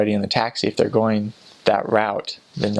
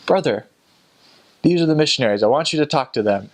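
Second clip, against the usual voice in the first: slightly higher, insistent introduction; mock member intro; 4 semitones higher, faster than usual. Member to a stranger on the street, eager introduction.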